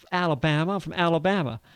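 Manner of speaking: retold line in a deep Southern accent. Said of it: "I had this deep Southern accent".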